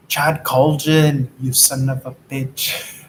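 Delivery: put-on slow, drawn-out Austrian-accented insult; lightly imitating Arnold Schwarzenegger; Arnold Schwarzenegger impression. Podcaster mock-insults his co-host in a light Arnold Schwarzenegger accent. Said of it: "Will Sasso's impression is he goes".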